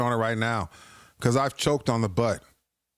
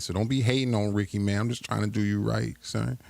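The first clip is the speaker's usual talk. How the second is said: put-on playful New York accent, lightly done. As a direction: talk like a New Yorker. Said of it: "just using my New York accent".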